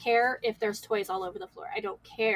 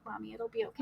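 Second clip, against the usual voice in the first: retold child's comfort; 10 dB quieter, faster than usual. Retold son comforting crying mother.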